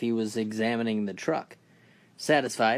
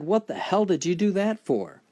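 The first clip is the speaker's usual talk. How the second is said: pained Jane; 9 semitones higher, 4 dB louder than usual. Acted. Jane in agony.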